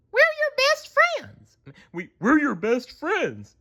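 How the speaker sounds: high, slow dopey stammer; pleading to be remembered; Patrick voice. A narrator's reading. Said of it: "said Patrick".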